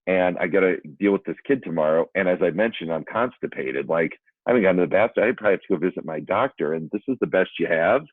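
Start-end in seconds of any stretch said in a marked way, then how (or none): 3.9-8.0 rushed, mildly exasperated complaint; retold frustration. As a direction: retell it as a mounting protest, ending in questions. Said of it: "I must have looked very frustrated".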